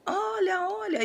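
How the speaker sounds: a woman urging her to look; frightened woman calling out; panicked call. Retold or imitated. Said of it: "Ela falava desse jeito".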